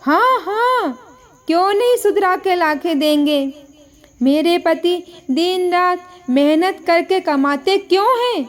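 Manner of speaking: mocking yell, voice jumping up on the opening words; half-shouted sarcasm at her husband; sarcastic angry shout. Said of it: "Anita और जोर से चिल्लाकर बोलती है".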